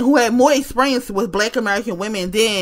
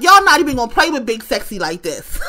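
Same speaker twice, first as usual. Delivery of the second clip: laughing retort. Retold or imitated. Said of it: "I'll be in there like".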